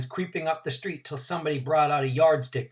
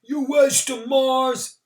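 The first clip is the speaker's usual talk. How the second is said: high, louder crowd cheer; shouted cheer; 12 semitones higher, 6 dB louder, slower than usual. A narrator's reading. Spectator cheering Mars Bar, loud cheer. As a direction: urge the runner on. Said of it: "someone came".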